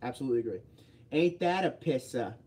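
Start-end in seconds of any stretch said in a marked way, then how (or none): 1.1-2.3 slow put-on Boston accent; playful Boston accent. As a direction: draw it out like a mock Bostonian. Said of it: "they make me do the Boston accent a lot".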